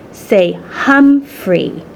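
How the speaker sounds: slow, gentle correction; gently correcting. Acted. Sister correcting her little brother, slow and gentle. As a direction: sound the name out slowly and kindly. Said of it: "Saya gently corrected him".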